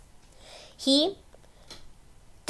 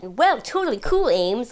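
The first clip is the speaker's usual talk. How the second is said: lightly acted, higher-pitched nineties slang; dub slang quote; 4 semitones higher, slower than usual. Quoting the original dub's slang, lightly acted and higher. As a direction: toss it out like a cartoon teen. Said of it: "like, that sort of thing".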